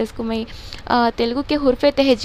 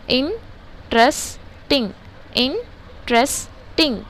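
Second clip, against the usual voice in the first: slow syllable demo; much slower than usual. Shown as a demonstration. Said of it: "तीन syllables हो गए".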